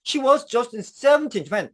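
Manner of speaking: slow, linked "She was just seventeen when"; teacher modelling the linked phrase slowly; slow linked reading. Shown as a demonstration. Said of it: "이렇게 하시면 돼요".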